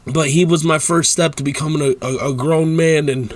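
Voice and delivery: tearful second try at the sentence; real crying. Real, not acted. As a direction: choke on the repeated words. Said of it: "start fucking crying".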